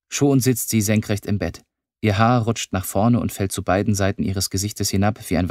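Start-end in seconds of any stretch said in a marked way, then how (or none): none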